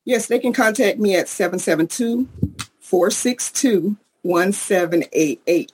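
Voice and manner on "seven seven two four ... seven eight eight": phone number slowly, group by group; deliberately slow. Real, not acted. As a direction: give the digits slowly with pauses between groups. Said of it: "I'm learning to say this slow".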